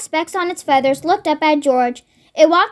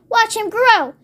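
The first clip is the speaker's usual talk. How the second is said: higher, lightly acted eagerness; excited anticipation; 5 semitones higher than usual. Mister Cranky waiting for the cockerel to grow, excited. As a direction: build expectation with lifted pitch.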